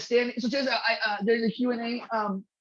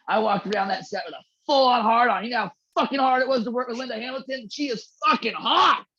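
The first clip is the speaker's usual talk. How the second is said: mock excited confession; 3 dB louder than usual. Retelling Ron's story emphatically.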